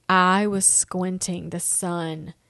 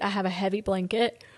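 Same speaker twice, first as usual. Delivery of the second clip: talking through a yawn; words stretched by a yawn; 4 dB quieter than usual. Real, not acted. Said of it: "I keep yawning".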